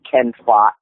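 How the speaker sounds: "Ken Fa" as the Cantonese term. Shown as a demonstration. Martial arts teacher giving a Cantonese term, Cantonese pronunciation. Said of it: "you'll also hear in Cantonese".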